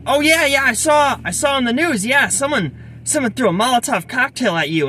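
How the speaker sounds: high-pitched imitation of an excited cashier; excited retelling. Cashier telling the cop she saw him on the news, excited. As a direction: act out someone thrilled to recognize you from the news.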